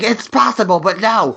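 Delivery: high, wry retort to being called dead; high sarcastic reply. Retold or imitated. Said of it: "I'm like".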